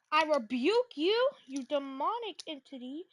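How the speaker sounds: drawn-out preacher rebuke; slow mock rebuke.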